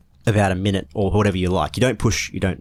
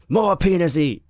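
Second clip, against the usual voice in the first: put-on drunk voice; 10 semitones higher, slower than usual. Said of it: "I was drunk, so I was like".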